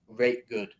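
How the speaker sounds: lightly voiced Yorkshire pronunciation; Yorkshire dialect. Shown as a demonstration. Explaining how Yorkshire people say it, Yorkshire dialect. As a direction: demonstrate the Yorkshire word for really. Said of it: "they'll say, like".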